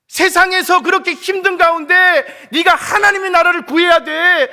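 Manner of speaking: loud, high reproach; firm loud rebuke. Pretend. God firmly rebukes the complaining believer. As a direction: remind them what was said.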